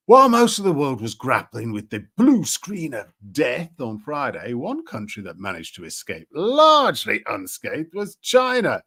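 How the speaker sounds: emphatic article reading with swooping stresses; news read. A narrator's reading. Streamer reading out a BBC article on CrowdStrike, emphatic news read. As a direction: read the report out, punching key words.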